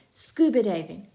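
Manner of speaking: loud shouted suggestion. Acted. Jake shouting an idea to friends, loud. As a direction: jump up and call it out. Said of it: "Jake jumps up and shouts".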